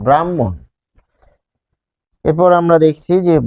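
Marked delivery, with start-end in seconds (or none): 0.1-0.5 ব্রাহ্মণ as "bram-mon", h silent; doubled m. Shown as a demonstration. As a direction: hold the middle m of ব্রাহ্মণ. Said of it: "এরকম".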